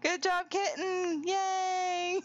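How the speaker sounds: high, drawn-out praise; high happy congratulations; cheering. Real, not acted. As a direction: cheer Kitten on, high and slow. Cheering the winner.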